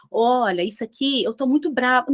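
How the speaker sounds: understated, mild-toned complaint; mock calm. Shown as a demonstration. Trainer showing mismatched words and tone, mild calm delivery. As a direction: claim anger in a gentle, even voice. Demo of soft tone contradicting angry words.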